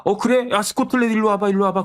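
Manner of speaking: eager king beckoning. Retold or imitated. King Charles voiced beckoning Scotland.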